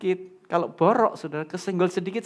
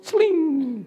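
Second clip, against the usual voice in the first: magic pop sound; 9 semitones higher, 3 dB louder than usual. Retold or imitated. Someone suddenly appears.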